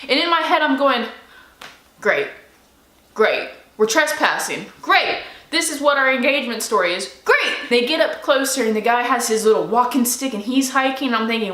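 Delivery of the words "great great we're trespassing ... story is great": sarcastic great. Retold or imitated. Sarcastic inner groan at trespassing.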